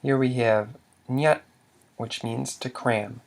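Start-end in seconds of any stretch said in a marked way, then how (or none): 1.1-1.4 nyat short on a slightly lifted pitch; brief mid-tone nyat. Shown as a demonstration. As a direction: say nyat as one brief syllable. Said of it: "which equals mid tone".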